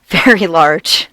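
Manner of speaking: normal talking voice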